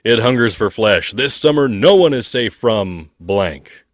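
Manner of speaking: lightly voiced trailer narrator; horror trailer voice. Shown as a demonstration. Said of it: "movie tagline".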